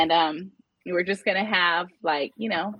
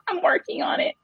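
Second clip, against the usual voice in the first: laughing; 12 semitones higher than usual. Real, not acted. Laughing at her own swearing.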